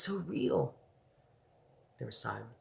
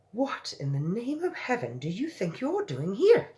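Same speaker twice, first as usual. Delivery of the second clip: maid's higher mock angry shout; 9 semitones higher, 5 dB louder than usual. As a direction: scold the intruder. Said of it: "she shouted angrily".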